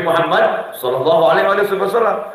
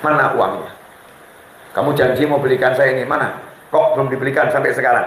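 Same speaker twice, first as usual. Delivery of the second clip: nagging wife; 7 semitones lower, faster than usual. Retold or imitated. Wife scolding husband in story.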